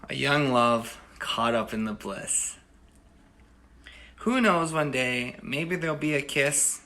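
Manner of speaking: unhurried poetry reading to an audience; poem recitation. Acted. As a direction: read it like a tender poem. Recites his love poem.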